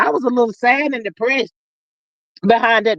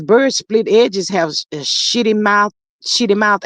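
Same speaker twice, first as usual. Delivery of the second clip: slow reading; 3 semitones lower than usual. Retold or imitated. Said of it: "Diva says".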